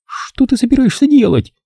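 high, worried question; alarmed question. A narrator's reading. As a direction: ask it suddenly frightened. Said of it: "встревоженно спросила она".

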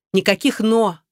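short, sharp shutdown; curt cut-off. A narrator's reading. Vika shuts down her friend's objection, curt. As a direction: cut her off flat, no arguments. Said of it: "отрезала Вика".

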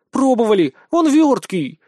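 "Пробовали" thrown out loud and high in exasperation; exasperated sigh. Acted. Young lady tells him the broom failed, exasperated and loud. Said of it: "вздохнула юная госпожа Игнатьева".

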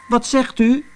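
high, bewildered ask; ask, not understanding a word; puzzled question. Acted. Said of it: "vroeg Manus".

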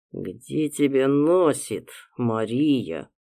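slow, menacing growl. Acted. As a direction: growl it through your teeth. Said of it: "прорычал".

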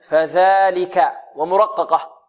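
فذلك drawn out, tongue out on the ذ; teacher shows the ذ in فذلك; slow articulation demo. Shown as a demonstration. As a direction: slowly voice فذلك with a light ذ. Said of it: "الذال معجمة".

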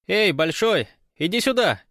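high, loud call across the shore. Acted. The gypsy calls Bolshoy over to the water, loudly. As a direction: yell for him to come over. Calling a friend from afar.

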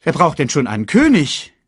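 high, loud scoffing hyena; Shenzi. A narrator's reading. Hyena dismissing kings, high and scornful. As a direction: toss it out as a scoff. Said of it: "sagte Shenzi".

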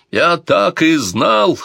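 high, loud, slow exclamation; exclaiming. Acted. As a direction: throw it up in bitter triumph. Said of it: "воскликнул принц Альфонсо".

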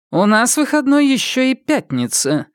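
cutting her off, high and sharp; curt retort. A narrator's reading. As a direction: snap back with a curt reply. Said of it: "отрезает Косаковская".

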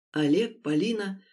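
usual speaking voice

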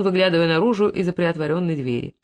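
ordinary delivery, nothing marked

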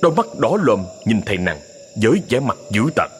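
usual speaking voice

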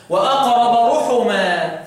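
drawn-out recitation of the verse; slow tajwid recitation; slow Quranic recitation. Shown as a demonstration. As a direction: recite slowly, stretching each word. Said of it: "مين اللي يقرأ رحما بالضم؟".

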